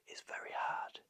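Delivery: soft breathy whisper. Shown as a demonstration. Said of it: "if you wanna go lower".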